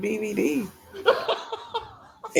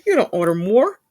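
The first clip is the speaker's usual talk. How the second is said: mimicking California accent; faster than usual. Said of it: "Your California accent came out".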